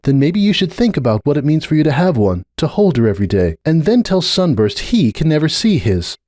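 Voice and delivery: a lightly voiced earnest unicorn pleading her case; Starlight. A narrator's reading. Starlight pressing her point with Cupcake, earnest.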